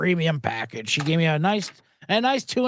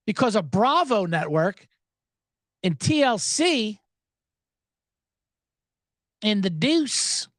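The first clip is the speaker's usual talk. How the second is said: slow deadpan list; slower than usual. Pretend. Comic listing shows slowly.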